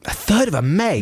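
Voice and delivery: shocked high echo of the price; incredulous. Real, not acted. Friend echoing the price in high disbelief. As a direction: disbelief at a third of a meg.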